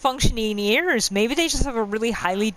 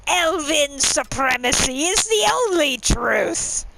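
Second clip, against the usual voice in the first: slow, higher, haughty British pronouncement; snotty British accent; 6 semitones higher, slower than usual. Retold or imitated. Gamer imitating a Thalmor battle cry in British accent. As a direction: proclaim it like a smug British high elf. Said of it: "in this really snotty British accent".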